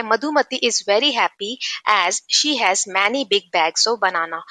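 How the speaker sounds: slow, careful textbook reading; slow reading aloud. Shown as a demonstration. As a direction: read each word out slowly for the class. Reads English text slowly aloud. (धीमे-धीमे पढ़कर सुनाना)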